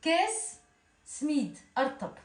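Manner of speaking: « Kes smid » à la tunisienne, débit normal; accent tunisien. Shown as a demonstration. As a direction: dire « Kes smid » en dialecte tunisien, naturellement. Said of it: "On sent l'accent tunisien". (« Kes smid » en accent tunisien)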